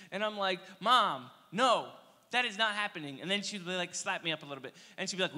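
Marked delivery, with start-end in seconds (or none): 0.8-3.2 mock protest. Kid refusing mom loudly.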